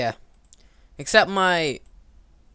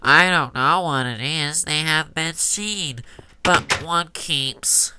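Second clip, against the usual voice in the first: pinched nasal nose-held voice; holding nose. Shown as a demonstration. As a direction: read with your nose pinched. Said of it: "I'm gonna hold my nose".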